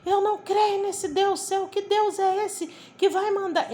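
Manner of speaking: high, protesting outrage; retold indignation. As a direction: imitate an indignant wife challenging her. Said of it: "a esposa dele ficou revoltada comigo".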